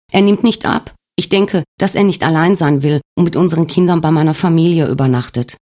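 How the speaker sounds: a frightened patient pleading for answers; Svenja's confused questions. Acted. Svenja begs the nurse to tell her, anxious and high.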